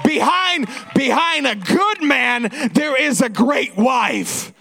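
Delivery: slow, deliberate tribute; proclaimed slowly. Real, not acted. Host honouring the pastor's wife before the crowd, proclaimed slowly. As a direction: stretch out each phrase for emphasis. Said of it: "say it in the right way".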